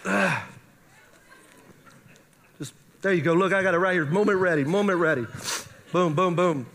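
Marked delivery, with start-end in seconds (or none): 0.0-0.4 imitated "ugh" of a runny nose; comic disgusting noise; mock snotty noise. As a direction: act out a messy snort. Mimes snotting over everybody.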